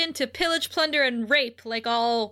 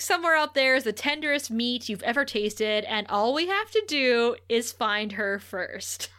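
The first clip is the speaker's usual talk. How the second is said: sinister Spike whisper. Retold or imitated. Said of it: "he's just like".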